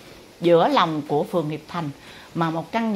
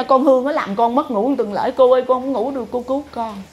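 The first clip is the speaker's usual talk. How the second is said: mock pleading; 4 semitones higher, 4 dB louder than usual. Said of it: "kêu khóc, kêu gào".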